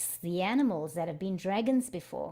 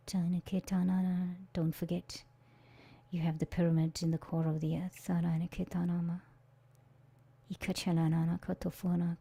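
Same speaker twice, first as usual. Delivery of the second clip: guided meditation. Acted. Facilitator guiding listeners to their dragon, calm meditation voice. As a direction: lead the group calmly into the earth.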